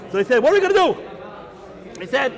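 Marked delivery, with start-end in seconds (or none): 0.4-1.0 high, louder panicked question; the rabbis throwing up their hands in alarm; worried cry. Acted. Rabbis panicking over the decrees, high worried cry.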